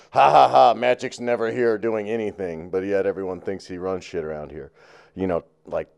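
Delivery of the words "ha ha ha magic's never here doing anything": loud fake laugh then sneer; sarcastic mocking laugh. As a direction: taunt with a jeering laugh. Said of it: "these really sarcastic".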